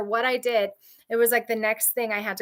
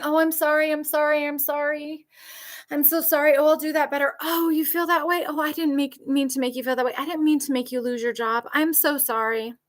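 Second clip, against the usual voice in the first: higher, pleading mock apology; mock groveling apology; 4 semitones higher than usual. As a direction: whine out fake sorries. Mocking an apologizing abuser.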